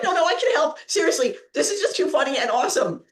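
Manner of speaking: helpless amusement. Retold or imitated. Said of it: "holding myself laughing".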